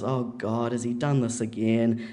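mildly exasperated, resigned; weary sigh. Retold or imitated. Neighbour hearing about friend's husband, mild weary sigh. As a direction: sigh it out, a touch of weariness. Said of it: "she sort of sighs and goes".

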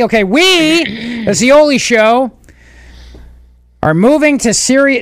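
slow, drawn-out wacky DJ voice. Pretend. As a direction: announce it like a goofy morning DJ. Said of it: "I'm trying to channel wacky F M".

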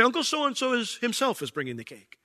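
awkward phrasing. Shown as a demonstration. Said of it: "I wouldn't say".

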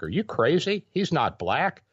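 high, disbelieving mock outcry; imitating coworkers, high and incredulous. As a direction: act out the coworkers' shocked disbelief. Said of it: "looked at me like".

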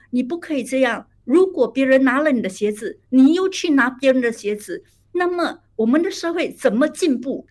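displeased scolding. Retold or imitated. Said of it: "她就很不高兴地说".

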